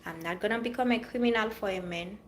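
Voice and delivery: normal talking voice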